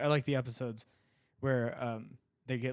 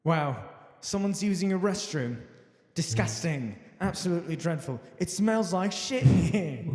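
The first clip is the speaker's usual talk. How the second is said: 1 mock disgusted Gordon; 4 semitones higher, 3 dB louder than usual.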